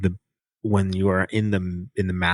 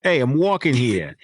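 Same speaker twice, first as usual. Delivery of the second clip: Kaz; 5 semitones higher than usual. Acted. Cohost mocking Kaz against formal demon voices, New York accent. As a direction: do a brash New York street shout, lightly. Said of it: "Kaz is just like".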